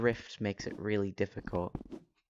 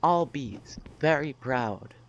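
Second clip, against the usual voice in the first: robot voice. Acted. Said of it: "That's intentional".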